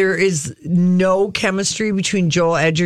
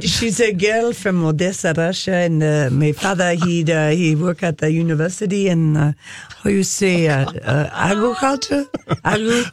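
put-on Russian accent. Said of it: "any opportunity to re-improve my Russian accent".

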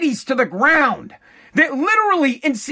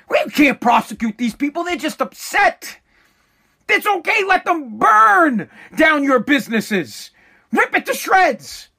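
mocking sarcasm; 3 semitones higher than usual. Vlogger mocking officials who won't prosecute rioters, sarcastic. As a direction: ridicule their easygoing excuses with mock calm.

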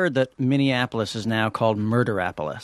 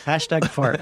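laughing repeat; 4 semitones higher, slower than usual. Real, not acted.

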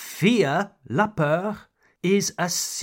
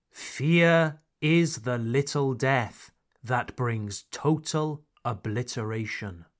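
dramatic recitation; 3 semitones lower than usual. Acted. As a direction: intone it like a sci-fi mantra. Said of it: "a quote from Dune".

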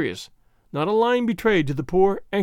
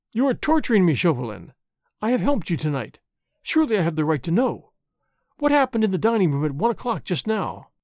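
ordinary delivery

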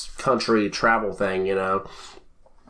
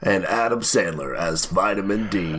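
movie trailer voice; 3 semitones lower than usual. Pretend. Continuing the trailer voice.

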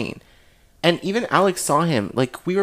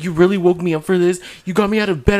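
higher-pitched mock scolding; mildly indignant imitation; imitated annoyance; 4 semitones higher, 3 dB louder, faster than usual. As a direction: retell an irritated friend's complaint. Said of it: "She got mad".

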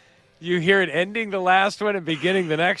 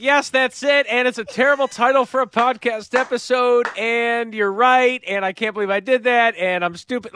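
mildly raised mock-excited run-on; imitated excitement; 3 semitones higher than usual. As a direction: imitate an excited friend, starting a little high. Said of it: "You were excited. You're like".

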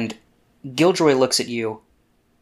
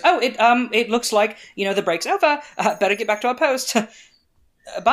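higher, louder, hesitant excuse; awkward, uncomfortable; 9 semitones higher, 4 dB louder than usual. Acted. Uncomfortable guard excusing herself to get away, awkward. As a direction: stumble through a polite getaway.

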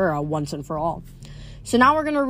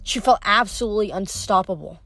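lively audiobook narration; story narration. A narrator's reading. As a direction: read the chase like an audiobook. Reads novel chapter aloud.

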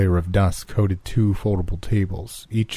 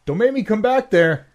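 high barked threat over bullhorn; megaphone voice. A narrator's reading. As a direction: shout through a megaphone. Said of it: "Jenkins' voice cut back over the megaphone".

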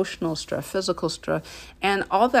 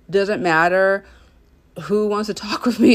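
emphatic; 6 dB louder than usual. Real, not acted. Firm stance on work boundaries.

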